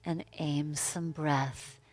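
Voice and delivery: slow, spacious yoga-teacher guidance; guided meditation. Real, not acted. Yoga teacher guiding breath into the neck, meditative. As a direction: lead them into the breath unhurriedly, with long pauses. Guides the class through pose.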